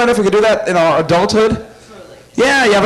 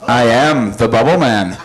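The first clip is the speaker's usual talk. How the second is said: Bubble Man persona; 7 semitones lower, slower than usual. Acted. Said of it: "introduced me before in my, uh, alter ego".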